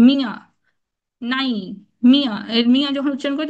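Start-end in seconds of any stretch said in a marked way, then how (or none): 0.1-0.3 মিয়া with the final vowel nasalised; nasal vowel. Shown as a demonstration. Teacher giving an example, nasal vowel in মিয়া. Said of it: "ধ্বনিটা চন্দ্রবিন্দু যুক্ত হয়". 2.1-2.3 মিয়া with the final vowel nasalised; nasal vowel. Shown as a demonstration. Teacher giving an example, nasal vowel in মিয়া. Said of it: "এটা চন্দ্রবিন্দুর উচ্চারণ আসতেছে".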